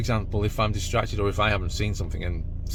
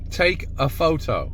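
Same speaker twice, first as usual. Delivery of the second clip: higher, carefully spelled-out command to a machine; clear voice command; 6 semitones higher than usual. Acted. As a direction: articulate it clearly for the dash cam. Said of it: "my more clearer telephone video voice".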